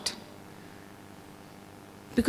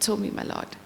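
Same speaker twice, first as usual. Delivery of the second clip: whispered reply; 7 dB quieter than usual. Acted. Brahma's humble reply.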